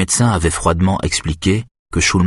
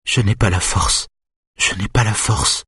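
higher, mildly weepy voice; understated crying, pitched up; tearful; 4 semitones higher than usual. A narrator's reading. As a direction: plead helplessly, as if close to crying. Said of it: "pleure-t-elle".

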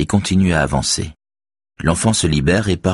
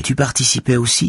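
put-on higher girl's voice, earnest and firm; teen girl voice; 7 semitones higher than usual. A narrator's reading. Girl defends Axel to Robert, higher earnest voice. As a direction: voice the young girl defending him. Beverly's voice.

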